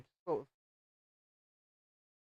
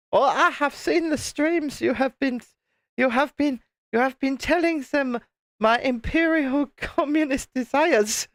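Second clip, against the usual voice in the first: mock stern commissar; 3 semitones higher than usual. Streamer playing his daughter, threatening him with the gulag, in mock sternness. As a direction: pretend sentence to the gulag, half laughing.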